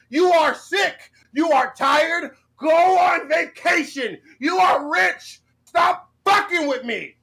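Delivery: a hammed-up screaming tirade; pretend crash out. Pretending to crash out at Keemstar, hammed-up shouting rant. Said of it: "Buff pretend to crash out".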